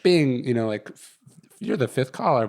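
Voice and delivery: lightly voiced conference line chime, retold; half-hearted imitation of the call system's announcement; automated call voice. Retelling to a friend how the line gave him away, mild mock robot voice. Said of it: "And so it goes like".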